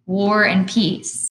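slow, loud repeat; drawn-out teasing call. Acted. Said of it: "he called out".

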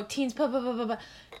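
stuck on the P, repeating it; real stumble over the podcast name; stuttering. Real, not acted. Host tripping over her podcast name, stuttering. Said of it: "oh my God, I can't talk".

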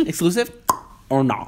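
high-pitched squeal of exclusive or not; high squeaky demand; shrill mock demand. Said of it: "That just shattered the eardrums".

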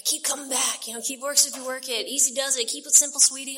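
put-on light Southern accent on the slogans. Speaker imitates Southern members with a light Southern accent. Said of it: "Everyone sounds Southern now".

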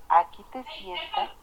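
sharp, high half-shout; a retold half-yelled command; half-shouted order. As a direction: order him to sit, nearly yelling. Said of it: "casi semigritando".

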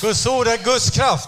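proclaimed. Shown as a demonstration. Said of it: "Säg".

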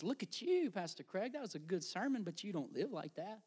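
soft, needling voice of condemnation; small inner voice. Acted. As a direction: quietly accuse the pastor from inside his head. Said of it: "comes as a really small voice".

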